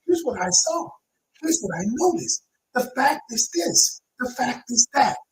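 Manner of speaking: calm manner. Shown as a demonstration. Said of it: "state the facts in a calm manner".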